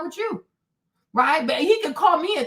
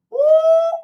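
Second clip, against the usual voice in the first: sudden high-pitched loud ooh; high shocked squeal; 8 dB louder than usual. Real, not acted. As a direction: let out a startled squeal. Mom grabs pillow, rising tension.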